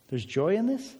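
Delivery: rising, doubtful question on this; mock surprise. Pastor feigning the congregation's disbelief, mock surprise. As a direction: ask it as if joy were news.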